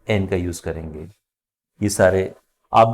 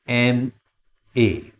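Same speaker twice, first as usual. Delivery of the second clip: slow model reading; much slower than usual. Shown as a demonstration. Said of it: "slow model reading".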